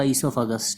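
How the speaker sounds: ईसोफेगस said ee-so-fe-gus, the first o silent; teacher showing the silent o in ईसोफेगस; silent o esophagus. Shown as a demonstration. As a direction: say ईसोफेगस starting on ee, no o sound. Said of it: "ओ को silent करके".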